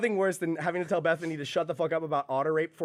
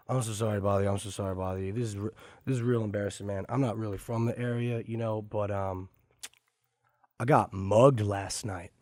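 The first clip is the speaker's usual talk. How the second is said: imitating the stranger; 4 semitones lower than usual. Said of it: "that guy put some weird emphasis on some words".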